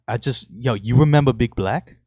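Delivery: put-on light Brooklyn accent, casual "yo". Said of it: "I gotta put up my Brooklyn accent".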